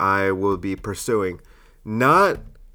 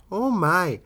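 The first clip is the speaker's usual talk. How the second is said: put-on high old lady exclamation; 7 semitones higher than usual. Shown as a demonstration. Comic showing off an old person voice, high old lady. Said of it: "Is it an accent?".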